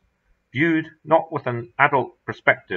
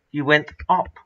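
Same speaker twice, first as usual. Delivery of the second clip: strained, held-in urgency, a little higher; through gritted teeth; 5 semitones higher than usual. A narrator's reading. Narrator on the ledge telling Mulholland, through gritted teeth. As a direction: squeeze it out past clenched jaws. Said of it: "I said through gritted teeth".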